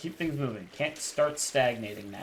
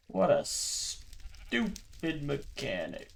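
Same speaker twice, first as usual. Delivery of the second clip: annoyed drawn-out complaint; 2 semitones higher, much slower than usual. Real, not acted. Annoyed after jump scare.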